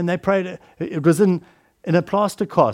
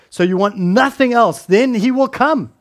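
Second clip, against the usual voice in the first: rising preaching; 4 semitones higher, 4 dB louder than usual. Real, not acted. Preacher building to climax.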